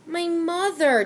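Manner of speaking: loud, high, frantic plea; urgent, almost panicked. A narrator's reading. Desperate boy reminds the storekeeper, frantic and loud. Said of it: "reminded the storekeeper frantically".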